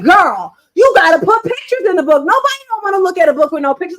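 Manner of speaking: loud, high mimicked friend; imitating insistent friend. Friend telling the author to add pictures, loud mock insistence. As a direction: push it out loud like a bossy girlfriend. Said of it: "she was like".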